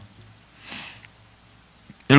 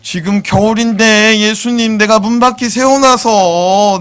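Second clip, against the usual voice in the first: put-on child's tearful answer; 4 semitones higher, 4 dB louder than usual. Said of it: "한이가 말합니다".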